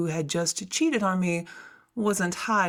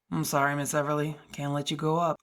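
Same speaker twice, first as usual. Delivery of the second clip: lower, apologetic guard voice; a kind guard regretfully blocking her way; security guard; 4 semitones lower, faster than usual. Acted. Guard telling the heroine she can't go up, lower and apologetic.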